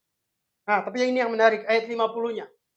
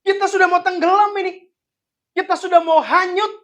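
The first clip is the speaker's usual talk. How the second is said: higher, louder frightened protest; panicked disciples; 7 semitones higher, 4 dB louder than usual. Acted. Disciples protesting to Jesus in the storm, higher and louder in panic. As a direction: plead as if the boat is sinking. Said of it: "murid-murid bisa nanya".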